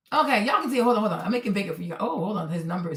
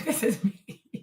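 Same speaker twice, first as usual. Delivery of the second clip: softer, through a laugh; 4 semitones lower, 6 dB quieter, slower than usual. Real, not acted. Laughing as she shows viewers her message. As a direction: giggle it, embarrassed.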